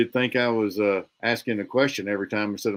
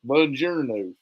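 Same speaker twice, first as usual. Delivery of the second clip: mock Italian; slower than usual. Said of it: "Italian from Inglourious Basterds".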